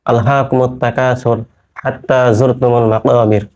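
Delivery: slow, measured Arabic verse recitation; unhurried tajweed-style reading; Quran recitation. Acted. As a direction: recite the verse slowly with drawn-out vowels.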